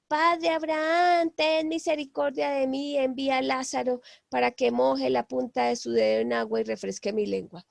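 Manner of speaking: half-hearted calling out, stretched at first; mock distant plea that settles toward normal voice; grito suplicante imitado. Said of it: "le empieza a gritar al padre Abraham". (súplica a gritos a medias, que se va apagando)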